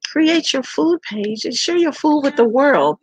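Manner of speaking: high, slow voice imitating sister; big sister. Big sister suggesting a food page, imitated high and slow. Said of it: "and she's like".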